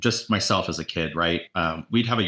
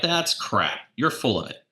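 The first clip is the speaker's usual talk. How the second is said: higher-pitched, lightly hammed-up scoff; mock angry retort; 5 semitones higher, slower than usual. Agent brushing off his coach's criticism, high mock scoff. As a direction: retell snapping back at the coach. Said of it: "I'm like".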